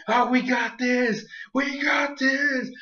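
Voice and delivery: slow, rising cocky boast; slow mock confident. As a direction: drag it out, smug. Pokemon boasting, voiced.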